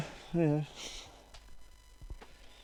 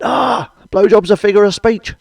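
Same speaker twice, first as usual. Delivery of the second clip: louder and higher, slowed down; hammed-up loud realization, dragged out; mock loud exclamation; 8 semitones higher, 9 dB louder than usual. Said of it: "I went".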